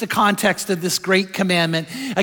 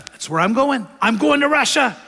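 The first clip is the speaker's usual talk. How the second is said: put-on higher, firm little boy's insistence; insistent little boy; 4 semitones higher than usual. A four-year-old telling his dad, lightly voiced as a small boy. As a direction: dig in like a small stubborn kid.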